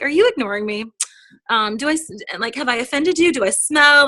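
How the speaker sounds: light mock-worried teasing; playful mock-hurt follow-up. Shown as a demonstration. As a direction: tease them playfully. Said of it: "joke around with them".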